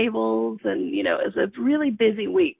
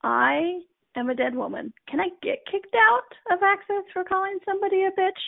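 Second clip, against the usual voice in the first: freaking out; 9 semitones higher than usual. Retold or imitated. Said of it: "I was freaking out".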